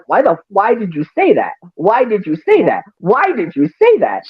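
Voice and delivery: mildly upset retelling, rising in pitch with each repeat; insistent, mock-upset repeated question; retold upset. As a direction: quote someone upset, pressing the question harder each time. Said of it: "Pixie was very clearly upset".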